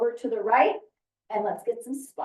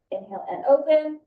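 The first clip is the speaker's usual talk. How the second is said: inhale cue, higher and louder; rising inhale cue; 5 semitones higher, 3 dB louder than usual. Shown as a demonstration. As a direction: lift the voice on the inhale.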